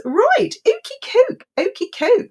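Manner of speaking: high, slowed "okie koke"; high playful sing-song. Real, not acted. Playful wrap-up of stream.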